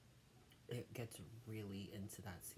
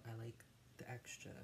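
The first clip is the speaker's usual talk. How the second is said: whispering; 5 dB quieter than usual. Real, not acted. Whispered while eating.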